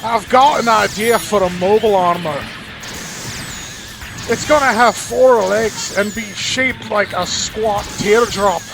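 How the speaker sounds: a hint of a Scottish engineer proudly pitching his mobile armor. Engineer describing his new mobile armor in a light Scottish accent. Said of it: "I made the engineer sound Scottish".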